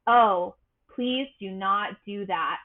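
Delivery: slow, lightly voiced stormy tone; imitated stormy personality. Shown as a demonstration. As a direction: try on some gravitas, each word measured. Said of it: "imitate for you more of a stormy personality".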